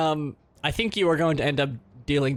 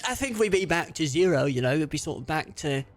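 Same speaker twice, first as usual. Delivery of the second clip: put-on French accent. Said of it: "not do a French accent".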